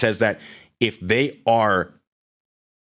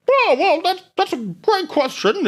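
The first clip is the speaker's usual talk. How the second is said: very high, slow mock helpful voice; high cheerful mock official voice; voice of California; 4 dB louder, slower than usual. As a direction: squeak it like a cheery know-it-all. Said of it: "that's the voice of California".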